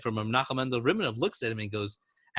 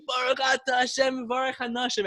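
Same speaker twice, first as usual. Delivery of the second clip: imitating crying prayer; 12 semitones higher than usual. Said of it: "he's crying for these holy women".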